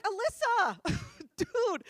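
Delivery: loud, high mock outrage; appalled scolding. Girl scolds friend for answering creeps, appalled. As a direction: cry the name out in disbelief.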